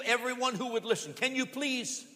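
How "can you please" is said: lightly voiced beggar calling out; a hint of a desperate call for help; mild calling plea; beggar crying out. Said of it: "crying out to anyone".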